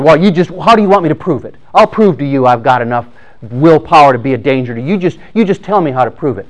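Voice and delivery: hammed-up defiance, pushing to prove yourself; defiant condemned man. Condemned man defies his executioner.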